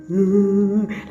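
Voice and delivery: drawn-out mock sob; put-on wordless cry; imitated crying wail. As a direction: imitate yourself wailing on the floor. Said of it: "and I cried".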